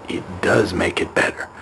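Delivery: secretive whisper; hushed confession; whispering while hiding. Pretend. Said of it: "I'm hiding".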